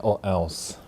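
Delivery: quiet playful threat; mock threatening. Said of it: "threatening is the best way".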